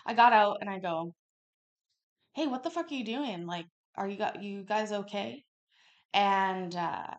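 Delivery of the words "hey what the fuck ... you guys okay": high, fast mock shout of alarm; retold yell at stranger. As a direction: yell it at the man, half-replaying it. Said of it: "when I was starting yelling".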